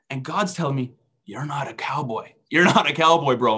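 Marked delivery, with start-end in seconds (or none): 1.3-2.3 softer, understated quoted rebuke; quietly acted telling-off; soft correction. Acted God correcting him, first take. 2.5-3.6 louder, mock-exasperated rebuke; emphatic buddy-style telling-off; insistent correction. Acted God correcting him, insistent repeat.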